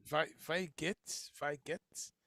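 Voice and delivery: "Wie" said like English "vy"; mispronounced German. Real, not acted. Host sounding out a viewer's German greeting, mispronounced. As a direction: say "Wie" to rhyme with "eye". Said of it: "I know I'm saying it wrong".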